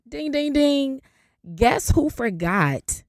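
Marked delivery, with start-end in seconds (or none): 0.1-1.0 high, ringing ding-ding-ding; game-show bell. Retold or imitated. Host announcing who forgot to renew, mock bell. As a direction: chime it out like a quiz bell.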